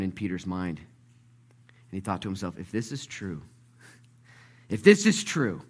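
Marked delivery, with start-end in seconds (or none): 2.6-3.4 quiet wondering. Acted. Peter privately wondering, building to desperation. 4.7-5.6 higher, louder, hopeful realization; rising urgency. Acted. Peter's thought repeated with rising urgency.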